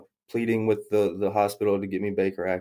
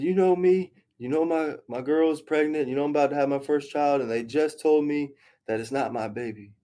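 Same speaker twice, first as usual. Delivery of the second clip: raised-pitch, agitated plea; retelling freaking out; 5 semitones higher than usual. Retold or imitated. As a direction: plead your case, mildly frantic, voice pitched up. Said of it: "And I'm freaking out".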